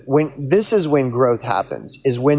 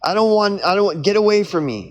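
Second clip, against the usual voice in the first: higher, hammed-up fearful pleading; mock panic, pitched up, pushing it away; retelling the Matrix, Neo's mock-scared higher outburst; panicked Neo; 6 semitones higher, faster than usual. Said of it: "he's like".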